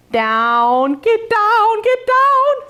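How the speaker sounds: calling out. Real, not acted. To the cameraman so she can demo, calling out high. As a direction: shout the order up the room.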